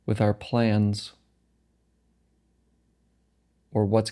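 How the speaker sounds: calm meditation guide, phrases set apart by long pauses; guided meditation. Acted. Guiding listeners through a meditation practice, calm and unhurried. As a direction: guide them gently, leaving space between phrases.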